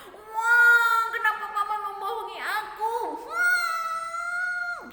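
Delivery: high, loud, fast indignant outburst; angry Jacob. Acted. Jacob confronts uncle Laban over the switched bride, furious. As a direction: cry out at being cheated. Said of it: "dia marah sekali".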